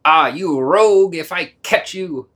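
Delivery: furious. Acted. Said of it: "Furious to the dog".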